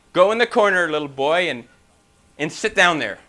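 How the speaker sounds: loud opening order, then easing; lightly acted classroom command; mildly stern teacher. Teacher orders a disruptive boy.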